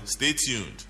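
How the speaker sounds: usual speaking voice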